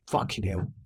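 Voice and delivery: low, soft curse; under his breath. Acted. Knight cursing under his breath on his way out, quiet. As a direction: mutter the curse as you leave. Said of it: "he says under his breath".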